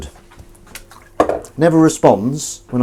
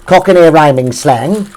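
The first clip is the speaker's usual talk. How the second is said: louder, slower and higher, like a grand announcement; proud announcement; 5 semitones higher, 8 dB louder, slower than usual. Shown as a demonstration. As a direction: proclaim it slowly with pride. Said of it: "Cockney rhyming slang there".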